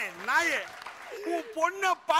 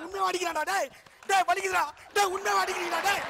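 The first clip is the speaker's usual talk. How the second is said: higher-pitched comic yelping; pained protest; 4 semitones higher than usual. Acted. Man being beaten up in skit, pained protest. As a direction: plead as the blows land. Yells that blows really hurt.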